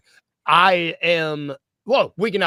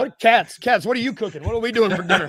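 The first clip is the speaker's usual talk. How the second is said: higher, louder chatter to the cats; talking to pets; 4 semitones higher, 4 dB louder, faster than usual. Pretend. Joking to his cats about dinner, a raised playful voice. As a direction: coo at the cats like they cook.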